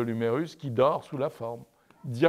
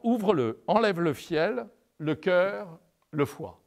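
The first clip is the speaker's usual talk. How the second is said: higher, a lightly voiced angel giving orders; a touch of the angel, pitched up; angel's instructions; 6 semitones higher than usual. Angel tells Tobie to open the fish, lightly voiced higher.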